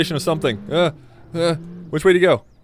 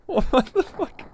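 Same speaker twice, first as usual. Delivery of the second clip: surprised outburst; 12 semitones higher, 4 dB quieter, much slower than usual. Real, not acted. Surprised by a crash.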